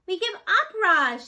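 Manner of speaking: loud, high calling shout. A narrator's reading. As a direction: shout it across the yard. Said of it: "shouted Jad".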